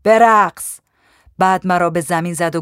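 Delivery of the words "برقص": loud, higher-pitched barked order; shouted command. A narrator's reading. Gaddafi ordering the young woman to dance, loud shout. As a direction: yell the order in one burst. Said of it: "فریاد زد".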